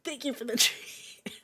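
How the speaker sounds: high, slow mock prissy echo; a hint of mocking the teacher. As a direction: parrot the teacher snidely.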